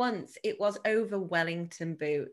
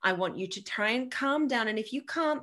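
put-on reassuring a child. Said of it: "was like".

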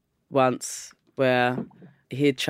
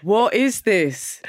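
slow baffled question; puzzled and drawn out; 7 semitones higher, much slower than usual. Retold or imitated. Retold reaction to hair.

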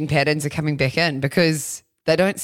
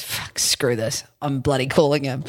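mock annoyed grumble; 2 semitones lower than usual. Radio host fed up with texts, grumbling. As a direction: grumble like you've had enough. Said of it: "and he goes".

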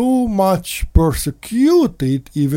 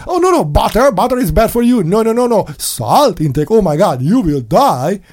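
mocking warning; 4 semitones higher, 4 dB louder than usual. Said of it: "They said".

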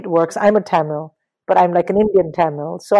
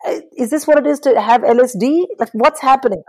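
amazed disbelief; 7 semitones higher than usual. Retold or imitated. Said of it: "I was like".

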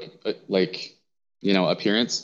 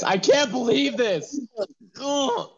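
"I can't believe this" stretched out slow and much higher, "can't" rising; a mock anguished wail, drawn out; wailing disbelief; slower than usual. Real, not acted.

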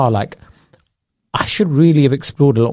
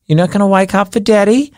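put-on high baby talk to a pet; mock doting owner coaxing pet awake; cooing pet owner; 5 semitones higher than usual. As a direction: coax the sleepy kangaroo like a baby. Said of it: "they were like".

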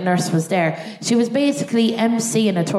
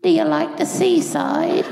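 high, slow, sing-song nurse; lightly voiced cheerful nurse; chirpy small talk; 8 semitones higher, slower than usual. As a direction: ask brightly like distracting a child.

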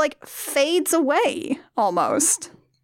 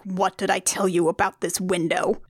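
mock scolding; 6 semitones lower, 3 dB quieter than usual. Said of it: "he does this momentary fake out of".

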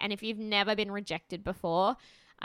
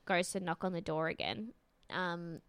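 ordinary talk, nothing marked

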